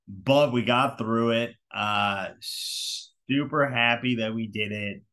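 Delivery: breathless and winded; catching breath between words. Real, not acted. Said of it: "I'm a little bit out of breath".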